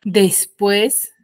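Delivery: Después with the final PUÉS stressed; teacher's demo of Después, weight on PUÉS; stress on last syllable. Shown as a demonstration. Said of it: "Son palabras agudas".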